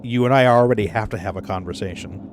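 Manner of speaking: deadpan warning with no give; level, understated mock threat. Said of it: "just as flat and deadpan".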